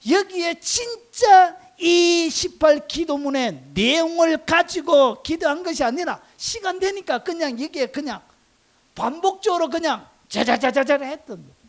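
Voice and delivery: loud, high, impassioned preaching; full-force preaching. Real, not acted. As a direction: raise the voice and hammer the point home.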